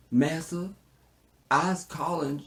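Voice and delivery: hammed-up meek servant on the phone; timid slave caller. Slave calls up Massa, hammed-up servile voice.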